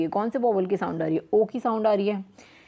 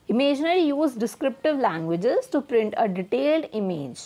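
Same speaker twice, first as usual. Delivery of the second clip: slow, careful reading of the definition; much slower than usual. Shown as a demonstration. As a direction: read it out slowly for the class. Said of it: "reading the definition slowly". (धीमी गति से परिभाषा पढ़ना)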